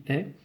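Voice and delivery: "est" as an open è; open-vowel "est", like è. Shown as a demonstration. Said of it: "E ouvert".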